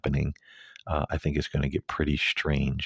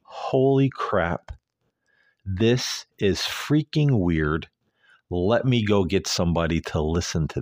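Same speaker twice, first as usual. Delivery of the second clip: mock alarm; 3 semitones higher than usual. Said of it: "would you be going".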